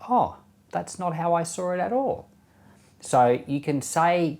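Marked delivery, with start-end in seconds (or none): 0.1-2.3 mild, higher-pitched gentle disagreement. Pretend. Gently disagreeing with someone who is angry at you, very gentle. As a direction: disagree kindly, without any force. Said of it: "or you could very gently say".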